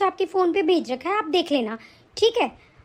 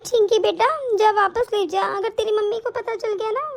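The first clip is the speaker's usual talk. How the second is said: put-on old grandmother; 3 semitones higher than usual. Grandmother warns child.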